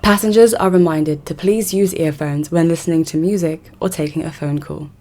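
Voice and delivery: a lightly voiced station announcer; a hint of a calm tube announcer; mock tube announcement. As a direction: read it like a light mock intercom notice. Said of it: "an announcement on the intercom that goes a bit like this".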